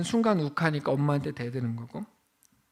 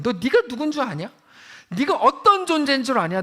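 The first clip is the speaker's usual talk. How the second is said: higher, emphatic challenge in God's words; God challenging Job; 8 semitones higher, 4 dB louder than usual. Acted. God speaking to Job about who he is, emphatic challenge. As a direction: press the question home as God to Job. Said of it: "하나님이 욥에게 그거를 말씀하시는 거야".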